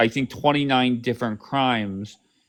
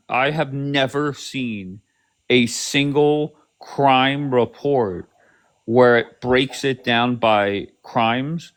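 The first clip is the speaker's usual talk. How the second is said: over enunciating; slower than usual. Shown as a demonstration. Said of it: "I'll say it slower".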